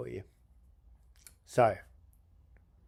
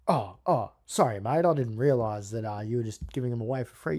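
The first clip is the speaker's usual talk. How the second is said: apologetic tradesman. Retold or imitated. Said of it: "I'm gonna do an impersonation".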